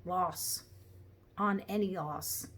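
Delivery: "loss" for horse, aitch and r dropped; Cockney "loss". A narrator's reading. Reader trying the cabby's word, "loss" in Cockney.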